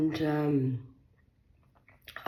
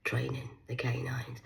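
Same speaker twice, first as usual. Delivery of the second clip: whispered retort; 6 dB quieter than usual. Retold or imitated. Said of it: "I said".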